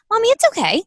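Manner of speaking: put-on high comforting child voice; little girl's voice. Mother imitating Kayla comforting her, high and sweet. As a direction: sweeten it like a small child soothing Mommy.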